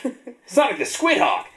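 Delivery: high squid creature voice; lightly voiced sea creature; gurgling tentacle alien. Squid voice continues.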